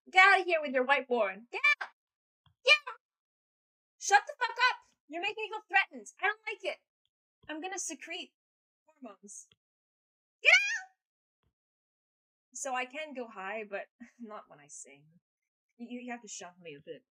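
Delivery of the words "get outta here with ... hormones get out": mock furious yelling. Mock outburst at the song.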